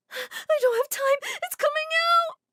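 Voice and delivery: high, loud, slow wailing; crying in labour. Acted. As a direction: wail it out in pain. Mary in labor, crying.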